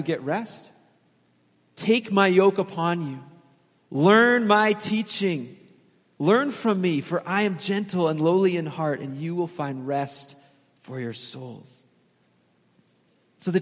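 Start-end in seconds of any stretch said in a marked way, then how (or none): 1.8-9.0 gentle invitation. Acted. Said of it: "where he says". 9.0-11.8 soft fade. Acted. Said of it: "where he says".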